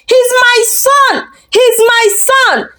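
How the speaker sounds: high, slow shocked cry; screaming. Acted. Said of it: "he screamed".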